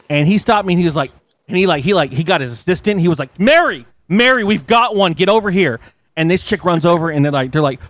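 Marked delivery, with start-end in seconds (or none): 3.4-5.8 high, raised-voice summons; acted holler across the room; calling out. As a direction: call a colleague over urgently. Agent calls out to his assistant.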